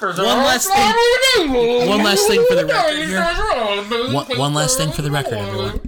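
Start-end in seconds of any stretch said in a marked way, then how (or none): 0.0-4.4 loud announcement. Pretend. Mock announcement.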